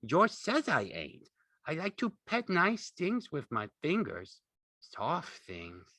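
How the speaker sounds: put-on high, childlike explaining voice; earnest. A narrator's reading. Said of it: "Lenny explained earnestly".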